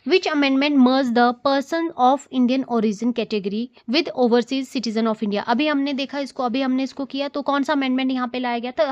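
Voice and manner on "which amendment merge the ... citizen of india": reading the quiz question out very slowly. Shown as a demonstration. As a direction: spell out the exam question word by word. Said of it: "next question". (परीक्षा का प्रश्न बहुत धीरे पढ़कर)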